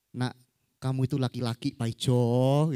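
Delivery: low mock-weepy reveal, drawing out the last word; mildly tearful mother. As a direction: gently break it to the child, half-crying. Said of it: "Mamanya nangis gitu ya". (ibu agak menangis, nada rendah)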